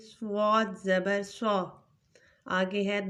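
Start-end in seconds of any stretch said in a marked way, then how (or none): 0.1-1.5 slow, thick صاد زبر سا; heavy letter. Shown as a demonstration. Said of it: "صاد کو بھی موٹا پڑھیں گے".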